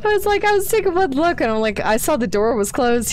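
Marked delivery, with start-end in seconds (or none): 0.0-1.4 high squeaky voice. Retold or imitated. Retelling own reaction, high voice.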